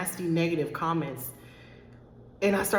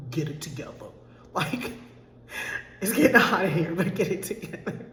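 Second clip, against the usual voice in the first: choked up. Real, not acted. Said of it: "I'm getting a little choked up".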